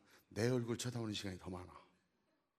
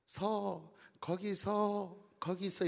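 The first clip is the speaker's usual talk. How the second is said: playful chasing husband; 7 semitones higher, much slower than usual. Retold or imitated. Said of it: "남편이 뒤따라가면서".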